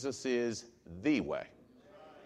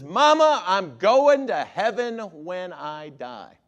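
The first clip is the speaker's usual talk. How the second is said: put-on high, eager little child voice, slowing on the words; a child telling mama the good news; child's voice; 3 semitones higher, 8 dB louder, slower than usual. Child tells mother he's saved, high and eager.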